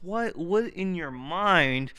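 furious rhetorical outburst; angry shout. Retold or imitated. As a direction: escalate into yelling the question. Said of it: "I'm like".

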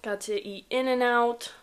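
talking while chewing a pretzel; words around a bite of food; mouth full. Real, not acted. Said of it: "sorry, I'm eating a pretzel".

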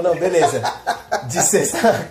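giggling while quoting her; can't keep a straight face; laughing through the quote. Retold or imitated. Retells her line laughing. (rindo ao imitar a fala dela)

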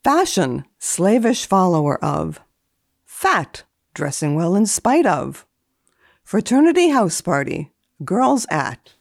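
dry formal reading of entries; deadpan list reading, each entry set apart; index read. Acted. Etiquette columnist reading old index entries, deadpan.

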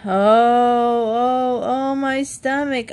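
Jan hams up Jody's fake groans; mocking groan. Brother mocking Jody's fake stomach ache, hammed-up. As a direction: mimic the sick act. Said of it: "Jan said".

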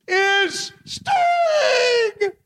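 high, laughing, shouting. Real, not acted. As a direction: blurt it out laughing and yelling. Announcing winner with laughing shout.

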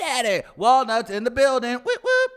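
high hype-man cheer; hyped cheering. Real, not acted. Hyping up a cohost.

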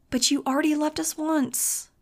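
put-on high, pleading young girl's whine; whining Nudge. A narrator's reading. Nudge whining to Max about being left behind. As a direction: whine it like a hurt kid sister. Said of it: "Nudge whined".

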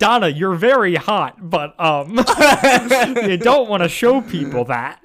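imitating Whit. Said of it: "where Whit's like".

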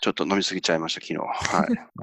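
rough, sluggish hungover voice. Real, not acted. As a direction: talk like the morning after drinking. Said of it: "声が違いますもんね". (二日酔いの声)

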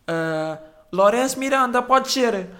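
high, loud name called across the waiting room; loud receptionist call. Retold or imitated. Receptionist calling the waiting patient, loud and high. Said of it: "pá, ela diz isto".

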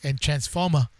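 imitated Boston twang on the word; Boston accent. Shown as a demonstration. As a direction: drop the final R like a Bostonian. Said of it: "your go-to Boston word".

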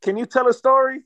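a lightly voiced distracted GM fobbing off a caller; mock Texans GM on the phone. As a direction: play the GM half-listening, busy with other things. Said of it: "is that not how you feel when the phone call is going".

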